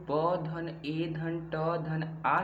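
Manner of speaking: ब, ए, ट, आ each drawn out separately; sounded out slowly. Shown as a demonstration. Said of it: "ध्वनियाँ हैं".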